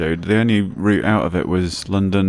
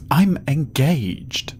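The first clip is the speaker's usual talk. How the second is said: higher, very drawn-out plea; pitiful protest; 7 semitones higher, much slower than usual. Acted. Young man excusing himself, drawn-out protest. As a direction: stretch it out pleadingly.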